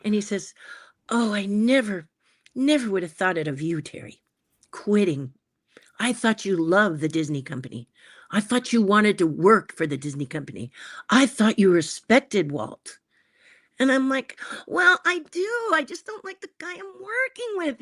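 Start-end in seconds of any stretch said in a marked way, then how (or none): 1.1-13.0 gentle guilt-trip. Retold or imitated. Herbie guilt-tripping Terry. 14.7-17.8 put-on higher young Terry whine. Young Terry defending himself.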